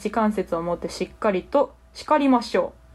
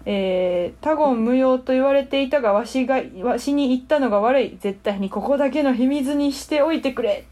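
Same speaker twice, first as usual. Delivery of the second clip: lightly voiced old sage; a hint of an ancient hermit; wise old hermit. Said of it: "キャラはすごい守ってらっしゃいました".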